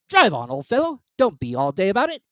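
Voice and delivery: loud, high gruff creature; hammed-up Gryphon; rough Gryphon voice. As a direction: boom it out like a rowdy beast.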